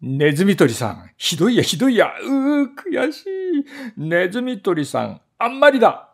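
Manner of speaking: very high, wailing in panic; trapped mouse wails in frantic despair. Acted. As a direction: shriek like a trapped animal. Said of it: "気違いのようになって".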